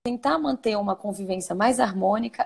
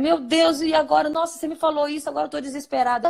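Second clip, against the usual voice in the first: play-acted panic with a rushed ending; mock desperation; 5 semitones higher than usual. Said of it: "Aflita do que a pessoa". (pânico fingido, voz mais aguda)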